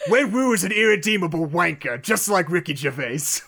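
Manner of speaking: light mock British accent, "wanker" leaned on; mock British accent, pleased with the insult. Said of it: "That, that's what you're looking for".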